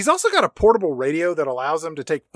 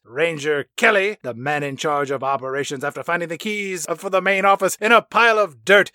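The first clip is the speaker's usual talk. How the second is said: mock movie announcer, quick and urgent; hammed-up news bulletin read; a lightly done emergency announcement; voiceover announcer; 3 semitones higher than usual. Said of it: "voiceover announcer here who says".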